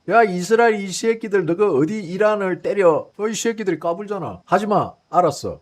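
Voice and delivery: hammed-up indignant warning; mock angry scolding. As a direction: act out bawling out an unruly underling. Acting out America scolding Israel.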